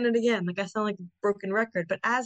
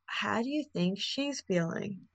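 curious questioning. Shown as a demonstration. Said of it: "And then you can then say".

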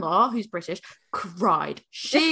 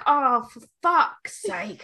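exasperated; much slower than usual. Retold or imitated. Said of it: "I just was like".

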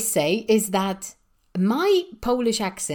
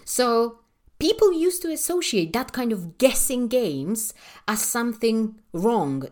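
ordinary delivery

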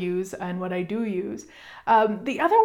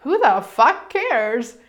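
slow, louder, offhand; imitating Gary; 3 semitones higher, 5 dB louder, much slower than usual. Gary brushing off her bragging worry, slow offhand. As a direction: drop it slowly like it's nothing. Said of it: "he's like".

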